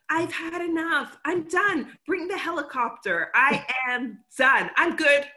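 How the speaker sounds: playful retold refusal breaking into a laugh; mock fed-up. Hiker in transition wanting to go home, mock fed-up. Voices women wanting to quit.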